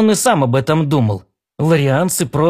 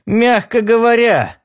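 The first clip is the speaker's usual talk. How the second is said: wry hum, then higher-pitched understatement; mildly ironic, higher voice; 8 semitones higher than usual. A narrator's reading. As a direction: say it with a dry little scoff. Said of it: "иронично усмехнулся Джонни".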